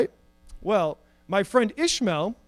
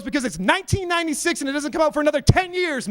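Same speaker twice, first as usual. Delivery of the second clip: exasperated retort; 5 semitones higher, faster than usual. Retold or imitated. Exasperated retort in retold argument.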